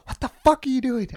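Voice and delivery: high, loud mock outrage; imitated angry outburst. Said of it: "she flings around and she's like".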